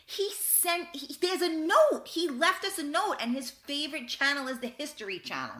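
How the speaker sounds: put-on high, breathless-with-news kid voice; excited child. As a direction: imitate a thrilled kid reporting a discovery. Excited child reports elf's note.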